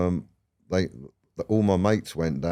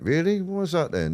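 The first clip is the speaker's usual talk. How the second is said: higher, naive surprised question; mock surprise; 11 semitones higher than usual. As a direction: play the clueless lad hearing news. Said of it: "And I went".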